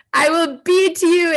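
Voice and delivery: loud, high threat; retold angry shout. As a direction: shout the threat as the furious guru. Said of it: "he was shouting, like, quite shouting at me".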